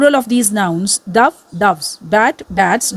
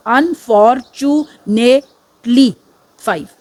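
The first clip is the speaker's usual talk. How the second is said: slow syllable count; much slower than usual. Shown as a demonstration.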